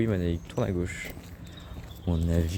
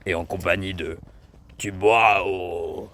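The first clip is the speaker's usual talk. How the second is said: lightly lowered mysterious narrator voice; a hint of a secretive documentary host; 3 semitones lower, slower than usual. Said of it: "cette voix mystérieuse".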